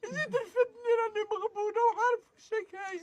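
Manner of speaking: tearful complaint through sobs; crying. Real, not acted. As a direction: speak while weeping. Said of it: "تبكيش".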